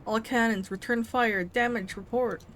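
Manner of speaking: commanding officer. Acted. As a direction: call orders across the bridge.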